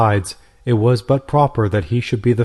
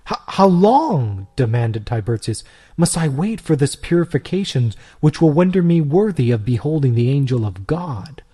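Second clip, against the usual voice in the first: put-on a lightly raised, hesitant young man's voice; eager Tiburtius; 3 semitones higher than usual. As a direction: stumble in, then plead to see the angel. Tiburtius voiced in read story.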